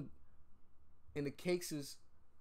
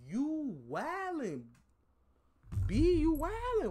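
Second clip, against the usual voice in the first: high-pitched voice; 13 semitones higher, 4 dB louder, slower than usual. Real, not acted. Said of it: "Why you talking like that?".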